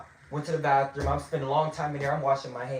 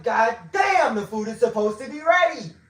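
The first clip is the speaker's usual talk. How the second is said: raised, exasperated retold complaint; really mad; 5 semitones higher than usual. Retelling a king's complaint about late food, really mad. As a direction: complain in a higher, heated voice. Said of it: "I'm really mad".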